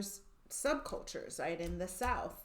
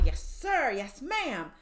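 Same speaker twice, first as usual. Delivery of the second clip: military yes sir; 3 semitones higher, 6 dB louder than usual. Retold or imitated. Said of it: "if you think about the military".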